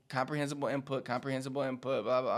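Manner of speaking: broken record. Real, not acted. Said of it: "I sound like a broken record".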